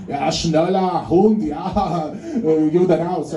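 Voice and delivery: mock harsh historical German. Comic recalling how Poles hear German, mock German orders. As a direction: parody old-time German commands. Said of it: "So the historical German".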